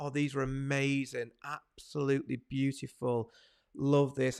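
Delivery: soft, low, gentle, drawn-out reassuring voice. Wedding photographer showing how to reassure couples: lowered, reassuring voice. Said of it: "you want to lower your voice".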